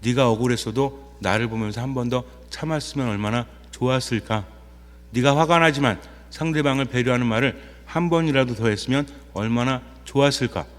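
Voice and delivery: lightly voiced Lord speaking gently through conscience; gentle voice of the Lord. Priest voicing the Lord to the congregation, soft and tender. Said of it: "주님께서 내 양심을 통해서 말씀해 주십니다".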